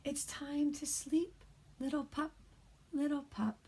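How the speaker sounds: soft, hushed read-aloud; quiet bedtime reading. Shown as a demonstration. Teacher reads a bedtime story to kindergarteners, hushed. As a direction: lull little ones toward sleep. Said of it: "I'm gonna read this book a little quieter".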